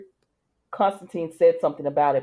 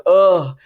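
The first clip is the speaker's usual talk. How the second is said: loud exasperated ugh; louder frustrated groan; 9 dB louder than usual. Retold or imitated. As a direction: let out a loud fed-up groan. John frustrated after Rafe's refusal.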